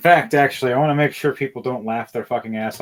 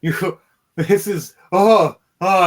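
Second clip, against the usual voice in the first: chuckling wizard; 8 semitones higher, 6 dB louder, slower than usual. Acted. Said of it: "he's now chuckling and laughing, going".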